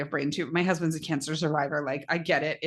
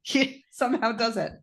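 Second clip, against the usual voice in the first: laughing; 4 semitones higher than usual. Real, not acted. Laughing about husband.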